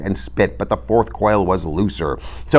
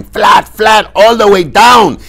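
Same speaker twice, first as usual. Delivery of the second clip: urgent, high shouted orders; loud, frantic high command; Inigo crying out; 9 dB louder, slower than usual. A narrator's reading. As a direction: yell repeated orders at full force.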